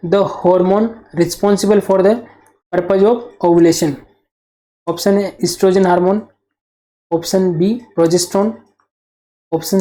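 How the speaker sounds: very slow, word by word, like dictating a test question; slow dictation. Shown as a demonstration. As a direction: read the question out slowly so students can follow. Teacher reading out exam question.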